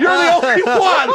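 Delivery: high, drawn-out laughing disbelief; amazed. Real, not acted. Host singling out Frank, amazed. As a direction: marvel slowly through a laugh. Marvels at guest's denial.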